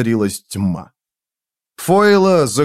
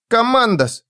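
put-on high-pitched child voice; small child; 10 semitones higher than usual. A narrator's reading. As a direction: answer as a little child. Child answers Foyle.

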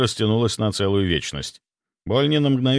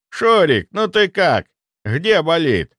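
caring; 7 semitones higher, 5 dB louder, slower than usual. A narrator's reading. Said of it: "участливо спросил дед".

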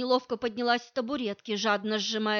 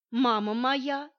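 sighing; 2 semitones higher, slower than usual. Acted. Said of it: "вздохнула я".

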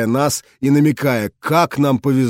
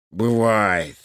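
unruffled; 3 semitones lower than usual. A narrator's reading. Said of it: "невозмутимо сказал директор".

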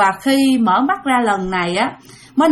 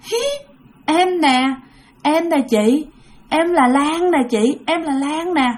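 ghostly voice; 3 semitones higher, slower than usual. Retold or imitated. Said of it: "nó giống như là nó vang, vang, vang".

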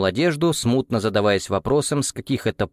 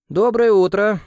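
high, louder bright good morning; cheerful greeting; 11 semitones higher, 5 dB louder than usual. A narrator's reading. Leader greets the table, cheerful and high. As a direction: breeze in, cheerful. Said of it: "весело кивая всем".

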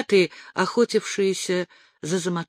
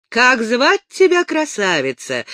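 a loud, higher call; shouting across the forest; 6 semitones higher, 4 dB louder than usual. A narrator's reading. The ataman yells his question at the girl beside him, loud. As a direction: call her name as if across the whole forest. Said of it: "на весь лес заорал Заматоха".

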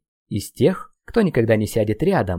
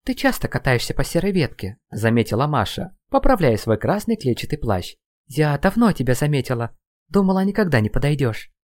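put-on higher gentle girl voice; light girl voice; 3 semitones higher than usual. Masha speaks to Slava.

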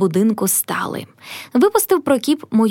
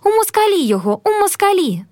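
mild mock screech, pitch leaping up; shrieking; 9 semitones higher than usual. A narrator's reading. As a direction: cry it out high in pitch, demanding. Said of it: "Пані аж верещить".

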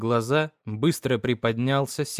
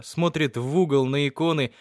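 plain reading voice

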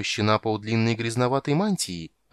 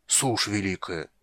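slow, softer, strained oath; aghast at the accusation; shocked gasp; 3 dB quieter, slower than usual. Acted. Shark gasps in shock.

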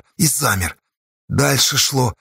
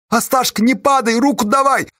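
sobbing plea; 10 semitones higher than usual. A narrator's reading. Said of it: "чей-то рыдающий голос".

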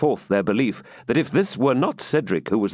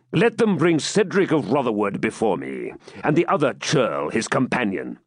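raised, lordly voice of a brutal knight, summoning his jailer; haughty Norman baron; 2 semitones higher than usual. Acted. Norman baron ordering his jailer, haughty raised voice. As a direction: bark orders like an arrogant castle lord.

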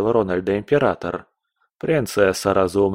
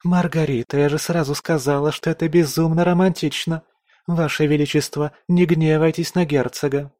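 put-on high girlish voice, eager and pleading; a giddy girl begging the emperor; young court lady; 7 semitones higher than usual. A narrator's reading. Geraldina begs the emperor for the duke, high and eager.

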